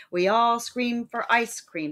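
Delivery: every word of "We all scream for ice cream" given its own slow heavy beat; slow even stress. Shown as a demonstration. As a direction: spell the rhythm out word by word. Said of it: "Spondies, the double stress".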